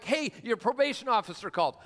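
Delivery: high-pitched mock holler; acted calling out. Rider trying anything to get the operator's attention, mock high holler. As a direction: holler it as a desperate ploy for attention.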